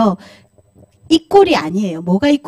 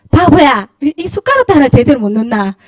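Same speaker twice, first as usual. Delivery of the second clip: louder, higher mock scolding; mocking a parent's scolding over spilled spoons; imitated scolding parent; 4 semitones higher, 4 dB louder than usual. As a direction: bark it like a fed-up parent. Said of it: "숟가락 통을 들고 가다가 탁 쏟았어요".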